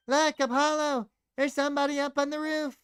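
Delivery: put-on high, quickening girlish alarm; high-pitched excited cry; excited calling out. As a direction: point it out urgently, high and fast. Acted excited companion pointing upward.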